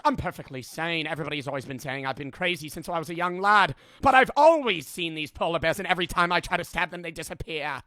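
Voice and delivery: lightly voiced rambling madman; hurried, insistent old-time guard; a hint of the raving witness; crazed guard. Acts crazed guard defending his sanity.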